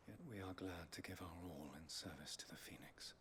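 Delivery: hushed, solemn cult whisper; creepy calm cultist. Acted. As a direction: whisper it like a devout zealot. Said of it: "You sound like a cultist".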